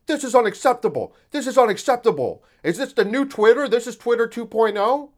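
mock Daily Wire outrage, high and loud; mock outraged pundits. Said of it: "all the Daily Wire people are like".

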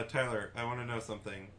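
soft, eerily calm doll voice; too calm creepy doll. Pretend. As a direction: ask sweetly like a haunted doll. Creepy invitation to co-host.

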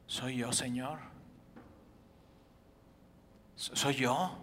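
anxious asking. Acted. Disciples ask, voiced.

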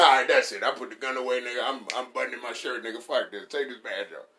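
loud cop giving up the badge; mock cop quitting. Cop quits the force, loud and fed up. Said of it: "I'm like".

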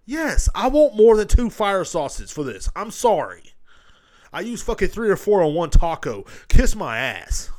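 loud, high, drawn-out comic outrage; indignant retort. Acted. Customer snapping back over fire sauce, comic anger. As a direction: fire back at full volume.

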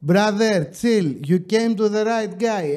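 put-on driver's accented English; reply in a put-on English accent. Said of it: "Θα το πω και με προφορά".

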